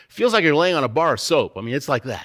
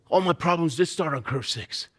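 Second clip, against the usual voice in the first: normal talking voice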